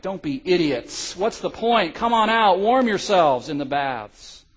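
loud taunting call across the ice, slowing at the end; shouting from the shore. Acted. Shivering guards shouting to soldiers on the ice, loud taunting. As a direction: call out to mock them to come in. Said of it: "shouted into the night".

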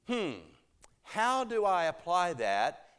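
slow, pondering question; lightly acted sage, musing aloud; wisdom voice. Listener weighing how to apply it, musing slowly. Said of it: "a wisdom voice. It's like".

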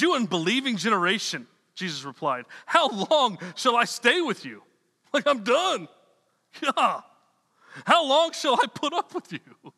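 an exasperated teacher who has had enough; exasperated Jesus. Retold or imitated. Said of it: "He's mad".

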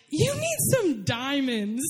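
slow, weighty announcement of the aunt; slow dramatic quote. Retold or imitated. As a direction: drop the line slowly for effect. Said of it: "And then she was like".

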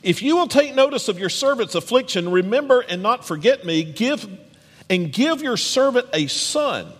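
lightly voiced desperate woman praying; pleading prayer. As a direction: beg the Lord for a son. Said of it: "she pleaded".

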